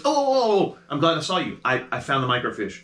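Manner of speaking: high, loud, eager burst of relief; a flustered clerk who's glad to see you; sudden pitch jump on the first oh's, then settling; excited librarian. Acted. GM voices librarian finding microfiche.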